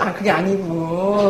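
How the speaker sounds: slow, drawn-out placating; retold coaxing, stretched out slowly; soothing. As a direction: imitate calming an annoyed friend. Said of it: "근데 이제 막 달랬죠".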